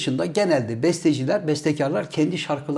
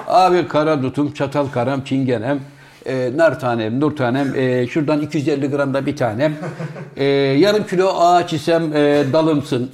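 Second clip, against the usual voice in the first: mock grocery recital; 3 semitones lower than usual. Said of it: "bakkala gittin".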